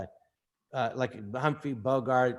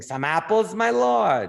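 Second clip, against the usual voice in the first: Ned Glass as extra; 5 semitones higher, 4 dB louder, slower than usual. Retold or imitated. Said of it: "in the marketplace going".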